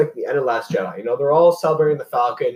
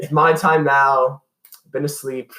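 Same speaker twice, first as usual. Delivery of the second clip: put-on very slow, creepy old villain; creepy old man voice; 3 dB louder, slower than usual. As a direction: creep it out like an ancient emperor. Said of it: "the creepy old man voice of Palpatine".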